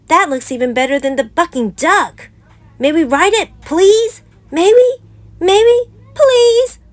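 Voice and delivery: put-on high, loud pleading little kid; begging cub. A narrator's reading. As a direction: beg and beg, rising to a wail.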